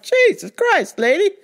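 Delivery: high, loud fed-up cry; telling off the loud customer, high and loud; exasperated outburst. Retold or imitated. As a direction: blow up at her in frustration. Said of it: "I was like".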